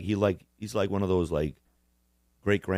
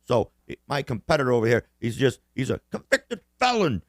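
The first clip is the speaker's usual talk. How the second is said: Biden impression; 4 semitones higher than usual. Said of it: "He'd be like".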